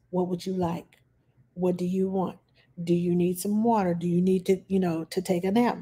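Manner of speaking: put-on soft, patient questions to a toddler; calm voice. Shown as a demonstration. Caregiver calmly asking a frustrated toddler what she needs, softly. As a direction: ask gently, like nothing is wrong. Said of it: "I do it in a calm voice".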